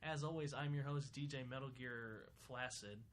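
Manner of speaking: slow, smooth radio DJ; radio host voice. Acted. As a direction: welcome listeners back like a DJ.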